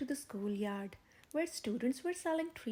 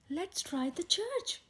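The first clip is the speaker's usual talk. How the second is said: enthusiastic; 6 semitones higher, slower than usual. A narrator's reading. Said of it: "Henry said enthusiastically".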